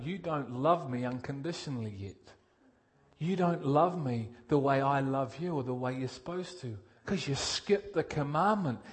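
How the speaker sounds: gentle Jesus. Acted. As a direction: correct him gently, like a patient teacher. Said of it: "'Cause Jesus is going".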